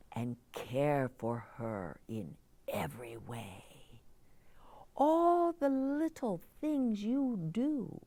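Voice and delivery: lightly voiced gentle Moon, hushed; a hint of a calm wise elder advising. Moon character answers girl.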